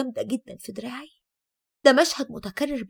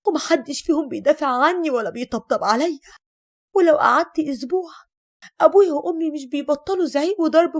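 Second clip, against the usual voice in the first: acted desperate wail, somewhat raised; distraught outcry; 2 semitones higher, 3 dB louder than usual. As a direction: pour out despair like an overwrought neighbour. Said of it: "وكانت بتقولي وهي بتصرخ".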